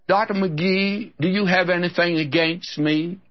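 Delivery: a touch of petulant whining; complaining church member. Retold or imitated. Member stopping the preacher after service, hurt.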